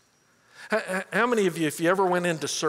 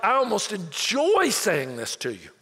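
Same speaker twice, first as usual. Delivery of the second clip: mock harsh relish; 4 semitones higher, 4 dB louder than usual. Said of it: "you just said it so harshly".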